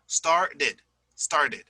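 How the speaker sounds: "started" with a tongue tap on the middle t; tapped T. Shown as a demonstration. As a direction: tap the t of "started" lightly, sound the ed. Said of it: "a little type of T".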